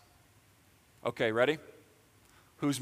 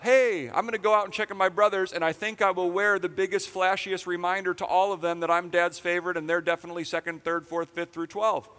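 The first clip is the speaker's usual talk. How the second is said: higher, cocky little brother boasting; smug Joseph; 4 semitones higher than usual. Pretend. Pastor mocking Joseph showing off to his brothers, smug. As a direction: lay on Joseph's smugness.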